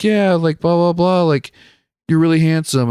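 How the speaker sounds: a light impression of a gushing woman; imitating the homeless lady. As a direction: mimic her gushing compliment up high. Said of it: "she's like".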